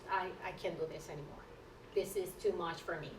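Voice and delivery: quiet, fast, defeated mutter; quiet hurried mock despair; worn out. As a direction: rush it out under your breath, exhausted. Despairing inner quote.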